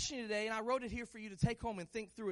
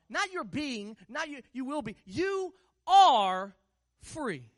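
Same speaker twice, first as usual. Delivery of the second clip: building to a loud, drawn-out "you are"; emphatic repetition; 2 semitones higher, 8 dB louder, slower than usual. Real, not acted. Preacher making sure church catches it, building emphatic force. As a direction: preach it harder, stretching and belting "you are". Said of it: "Let me say it again. Make sure you catch it".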